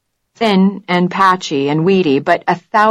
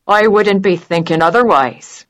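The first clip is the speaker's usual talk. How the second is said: a light put-on Irish lilt, teasing; a hint of a hammed-up Irish brogue; mock Irish brogue; 3 semitones higher than usual. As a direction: keep the jokey Irish accent going. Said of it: "winced slightly at the brogue".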